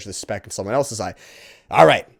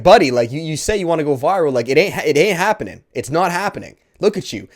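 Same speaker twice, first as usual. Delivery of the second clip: imitating a friend's emphatic call-out, loud at the start; retold straight talk to a slacking buddy; telling him straight; 3 semitones higher, 4 dB louder than usual. Friend calls out a buddy for half-assing it, imitated straight talk. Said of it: "he told him straight".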